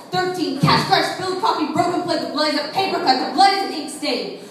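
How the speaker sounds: poetry recitation building in urgency and force; intense spoken-word poem. Acted. Poet counting scars for an audience, building, insistent slam delivery. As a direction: let the confession gather momentum, driving through the list.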